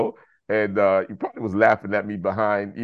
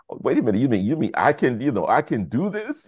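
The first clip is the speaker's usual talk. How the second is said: amazed realization; 6 semitones higher than usual. Retold or imitated. Realizing he can succeed.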